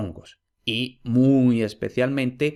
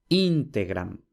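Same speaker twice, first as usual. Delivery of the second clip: Integram said with the stress on the first syllable, IN-te-gram; esdrújula stress; 4 semitones lower, slower than usual. Shown as a demonstration. Teacher showing integram stressed as an esdrújula. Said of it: "la palabra es esdrújula".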